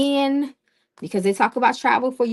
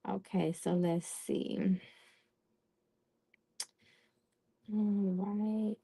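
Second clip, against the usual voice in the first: much softer, slow aside to herself; quiet muttering; 12 dB quieter, much slower than usual. Real, not acted. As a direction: murmur it under your breath while busy. Muttering to herself while shuffling.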